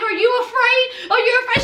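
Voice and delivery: teasing question. Retold or imitated. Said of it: "he was like".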